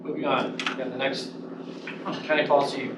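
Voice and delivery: talking around a mint; mint in mouth. Real, not acted. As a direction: speak with a mint in your mouth. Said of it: "I have a mint in my mouth".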